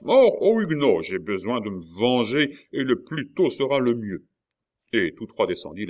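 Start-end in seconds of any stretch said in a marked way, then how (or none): 0.0-4.2 high, loud opening yell easing slightly; vengeful yell. A narrator's reading. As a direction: howl for revenge. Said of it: "hurla Coconas". (cri de vengeance hurlé)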